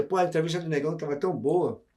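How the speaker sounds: talking with a mouth full of pizza; words round a bite of food. Real, not acted. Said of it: "O Negão tá falando de boca cheia".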